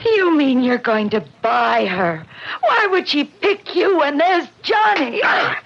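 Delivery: shouting at her father in fury; high furious outburst; angry shout. Acted. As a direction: yell it high and hard. Daughter confronts father, shouting.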